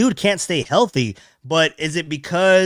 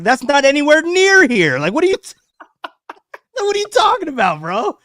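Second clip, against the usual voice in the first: exasperated disbelief; 10 semitones higher, 5 dB louder than usual. Retold or imitated. Exasperated reply to Papa.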